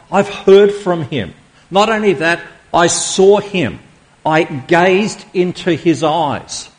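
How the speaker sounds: awed testimony. Acted. Preacher voicing John's eyewitness testimony.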